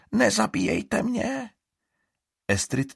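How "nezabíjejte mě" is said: pleading. A narrator's reading. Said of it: "zašeptá".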